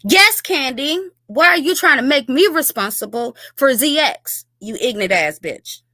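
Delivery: taunting the woman in the clip with mocking pitch; sarcastic taunt. Real, not acted. Talking back at the clip.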